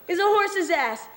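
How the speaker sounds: high, slow drawn-out reveal; head clown announcing. Acted. Clown insults Kenny before the crowd, announcing slowly. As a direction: stretch the punchline like a circus announcer. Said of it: "And he says".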